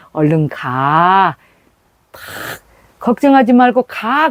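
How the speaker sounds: slow, gently reassuring; father soothing his daughter, unhurried; gentle fatherly voice. Retold or imitated. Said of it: "그 부드러운 그 소리".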